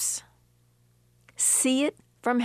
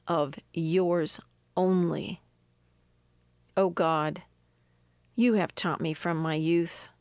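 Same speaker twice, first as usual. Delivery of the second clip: scripture reading; 2 semitones lower than usual. Acted. Preacher reading the psalm to her listeners, measured and prayerful. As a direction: read the verses prayerfully. Reads Psalm seventy-one aloud.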